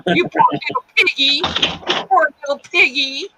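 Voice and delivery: sneering singsong at the cop; mocking baby talk. Teen mocking the police officer, cooing baby talk. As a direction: coo it like teasing a pet.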